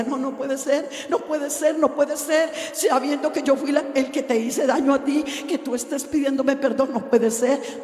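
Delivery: lightly acted weeping protest; retold tearful disbelief. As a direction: plead it over and over, as if tearful. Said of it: "comenzó a llorar y llorar y decía".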